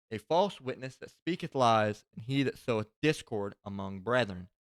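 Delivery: emphatic, measured Bible reading; scripture reading. Acted. Reading Proverbs to his listeners before closing, emphatic scripture reading. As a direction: proclaim each phrase with weight.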